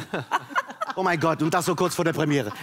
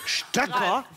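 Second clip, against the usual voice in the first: Stöcker asked with a high disbelieving rise; Stöcker? can't believe she said it; incredulous; 5 semitones higher than usual. Real, not acted. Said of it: "das hat sie doch jetzt nicht gesagt". (ungläubig, Stöcker? hoch ansteigend)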